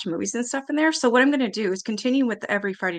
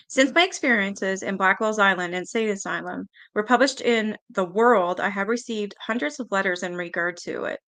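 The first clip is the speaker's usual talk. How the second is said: measured read of a book introduction; reading aloud. Real, not acted.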